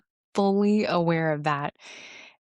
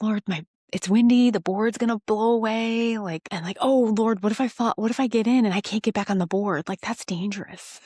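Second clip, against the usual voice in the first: anxious excuses; 4 semitones higher than usual. Retold or imitated. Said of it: "I gave him all the reasons".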